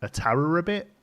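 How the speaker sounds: halting puzzled question, rising at the end; imitated baffled boss. Boss asking about an overheard phone phrase, baffled and halting. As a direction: grope through the unfamiliar words, baffled. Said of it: "he was like".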